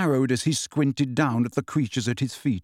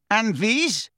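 stern centaur; 7 semitones higher than usual. A narrator's reading. Grey centaur demands about captives.

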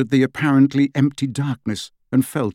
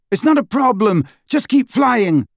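higher, louder shout over the wind; shouted back; 10 semitones higher, 4 dB louder than usual. A narrator's reading. Harry reassuring Hagrid over the engine, loud shout. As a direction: call it back over your shoulder. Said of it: "Harry shouted back".

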